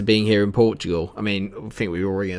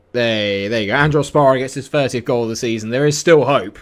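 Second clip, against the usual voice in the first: excited; 4 semitones higher, 6 dB louder than usual. Real, not acted. His team scores a goal.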